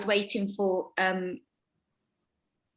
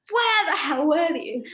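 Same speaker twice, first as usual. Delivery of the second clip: tag; 7 semitones higher, 4 dB louder than usual. Retold or imitated. Confronting the late actor afterwards.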